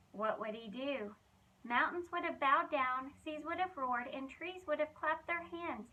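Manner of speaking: lively, expressive storybook reading; reading to children. Acted. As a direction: tell it like a bedtime Bible story for kids. Reads Bible story to children.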